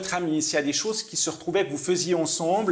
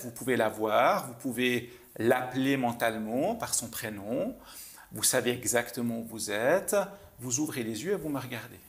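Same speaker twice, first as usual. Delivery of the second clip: lower, softening guiding voice; guided visualisation; 4 semitones lower, 4 dB quieter than usual. Real, not acted. Mentalist leading a volunteer back to a childhood memory, guided visualisation. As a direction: guide them gently inward, dropping low.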